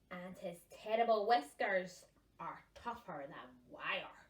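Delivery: dramatic spooky description; dad gruffalo. Acted. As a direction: make the mouse sound huge and scary. Dad describes the monster mouse.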